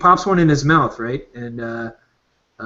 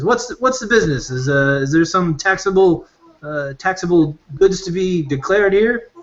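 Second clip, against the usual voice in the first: a lightly voiced, higher officious official; officious exciseman; 5 semitones higher than usual. Exciseman questions the smugglers about taxable goods, lightly higher and officious. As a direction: pitch it up, fussy tax officer. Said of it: "He says".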